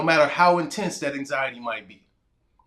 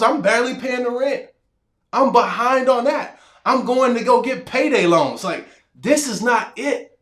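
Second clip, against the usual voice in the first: desperate plea to God; 4 semitones higher than usual. Retold or imitated. Broke teacher complaining to God, frustrated plea. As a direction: pour out your broken hopes to God, close to tears but holding it. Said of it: "and I'm like".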